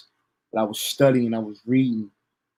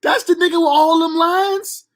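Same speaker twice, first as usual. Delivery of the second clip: high, slow, stretched-out incredulous question; drawn-out disbelief; 4 dB louder than usual. Retold or imitated. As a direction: drag it out in disbelief. Repeats shocked question, drawn out.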